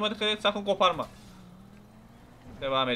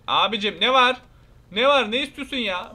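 angry yell; 4 semitones higher, 5 dB louder than usual. Acted. Angry confrontation with NPC.

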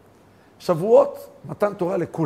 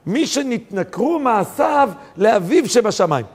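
shouted sermon; 4 semitones higher than usual. Acted. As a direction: hammer each word slowly. (קריאה איטית ורמה)

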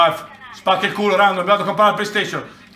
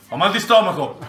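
laughing; 4 semitones lower than usual. Real, not acted. Laughing so hard it hurts.

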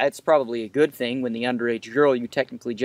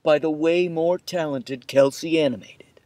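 whisper. Acted. Whispered aside credit.

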